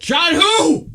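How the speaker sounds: high startled question; shocked, pitch jumping up; surprised. Real, not acted. Startled reaction to the text.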